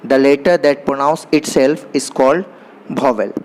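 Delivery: English definition read out very slowly, word by word; slow dictation. Shown as a demonstration. Teacher dictating a definition to the class, very slow and deliberate. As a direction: spell it out slowly so students can write it down.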